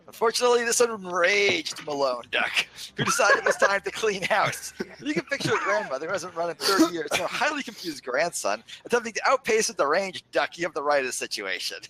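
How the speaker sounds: storyteller's reading of a comic family tale; dramatic reading. Pretend. Giving friends a dramatic reading of a duck story. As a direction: read the story out with mock drama. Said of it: "should I just give a dramatic reading".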